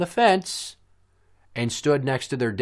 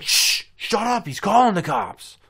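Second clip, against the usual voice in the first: long shush, then high urgent warning; hammed-up alarmed neighbor; mock panicked shushing; 11 semitones higher, 5 dB louder than usual. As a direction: hush the group in a put-on voice. Mimicking alarmed shushing of companions.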